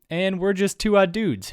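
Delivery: slow, smooth radio host voice; like a late night DJ. Pretend. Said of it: "I don't know why he's talking like that".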